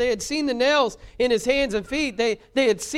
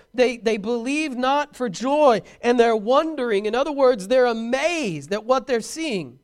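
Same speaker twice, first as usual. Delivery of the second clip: louder, slowed, insistent preaching; emphatic preaching; 5 dB louder than usual. Acted. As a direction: drive each phrase home. Preaching at full force.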